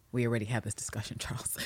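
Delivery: hushed, fast whisper. Retold or imitated. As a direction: whisper it urgently aside to Charles. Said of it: "she's just kinda like".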